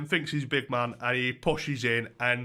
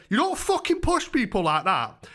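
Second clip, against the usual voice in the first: retold telling-off; 6 semitones higher than usual. Squaring up to the pusher.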